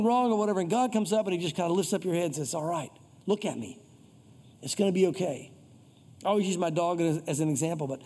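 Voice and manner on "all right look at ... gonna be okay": gentle reassurance. Acted. God to someone defeated, gently reassuring.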